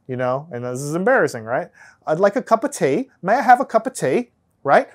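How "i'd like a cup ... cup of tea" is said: terrible, hammed-up British accent, a touch higher; mock British accent. Shown as a demonstration. Lecturer doing a self-mocking British accent for contrast. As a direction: put on a bad British accent, half embarrassed. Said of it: "But a British person might say it".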